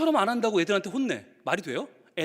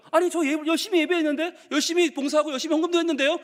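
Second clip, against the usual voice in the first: pleading protest; 6 semitones higher than usual. Pretend. Believer protesting at heaven's gate.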